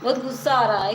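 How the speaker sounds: loud, heated complaint; angry. Real, not acted. Streamer tells viewers she's angry, loud angry voice. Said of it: "मुझे गुस्सा".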